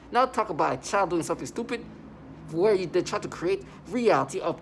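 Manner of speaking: real frustration building; angry rant. Real, not acted. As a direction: vent with rising anger. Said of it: "rising anger in rant".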